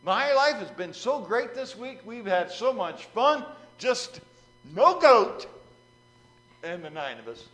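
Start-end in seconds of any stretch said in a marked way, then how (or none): 0.0-5.5 high, loud, slow overjoyed thanks; man thrilled the goat is gone, shouting thanks to the rabbi; excited. Retold or imitated. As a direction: gush with huge relief, voice way up. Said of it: "he comes back all excited".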